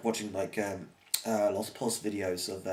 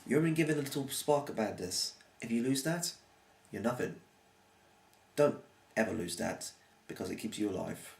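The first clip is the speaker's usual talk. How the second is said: proper and meaningful. Shown as a demonstration. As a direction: say it like it truly matters. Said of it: "I say this proper and meaningful".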